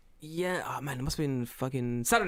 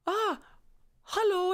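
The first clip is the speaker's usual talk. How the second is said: put-on old woman greeting; slower than usual. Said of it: "She turns, she goes".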